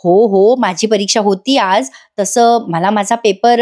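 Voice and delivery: slowing to build suspense; teasing suspense. Retold or imitated. Wife teasing waiting husband about her exam, drawn-out suspense. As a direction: hold back the answer, stretching the last words. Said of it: "थोडा pause घेते आणि म्हणते".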